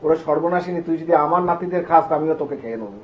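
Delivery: put-on old grandmother defying Kali with a loud threat; fierce threat. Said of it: "তাকিয়ে বলছে".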